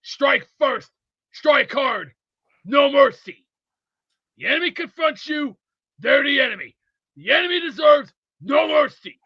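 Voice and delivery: quoted battle cry, building to a shout; halftime pep speech. Retold or imitated. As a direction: deliver the quote like a drill sergeant. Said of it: "let me give you this quote".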